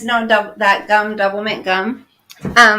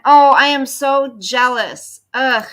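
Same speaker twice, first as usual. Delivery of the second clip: mock jealousy; 3 semitones higher, 5 dB louder than usual. Viewer bought a new hat.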